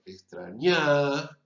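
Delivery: extrañada with its last A drawn out long; lengthened final vowel. Shown as a demonstration. Professor showing how vowel length sounds like stress, drawn-out vowel. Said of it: "Si yo alargo la tercera A".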